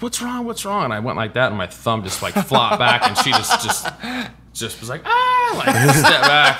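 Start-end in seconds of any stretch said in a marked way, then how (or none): 0.0-0.8 high, alarmed stranger's voice; mock alarmed lady. Stranger voiced in retold accident. 5.0-5.5 high startled shriek, half laughing; retold shriek. Lady recoils from flopped thumb.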